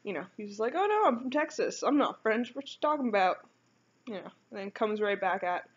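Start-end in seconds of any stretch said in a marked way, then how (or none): 0.8-3.5 higher, louder mock French accent; hammed-up French accent; Michel's French accent. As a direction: imitate a heavy French accent, pitched up. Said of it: "this heavy French accent".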